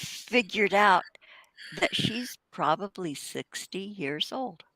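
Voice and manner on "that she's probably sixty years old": hushed gossip whisper. Real, not acted. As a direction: whisper it like a secret. Gossip about her age.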